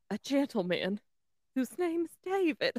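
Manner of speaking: put-on Southern accent on the verge of laughing; Southern madam drawl. Cohost struggling through the recap, halting Southern accent. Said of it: "She sounds like a whorehouse madam about to laugh".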